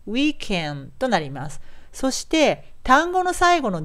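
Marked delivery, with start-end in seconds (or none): 0.1-0.9 "weekend" said slowly as "wee-ken", no u after k; linked ke. Shown as a demonstration. Teacher sums up for learners, linked "weekend". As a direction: make the middle of "weekend" a "ke". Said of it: "ケですね".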